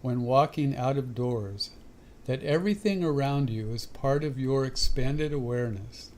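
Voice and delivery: measured inspirational reading with long pauses between phrases; devotional reading. Real, not acted. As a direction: read the meditation passage aloud, phrase by phrase. Reads a devotional passage aloud.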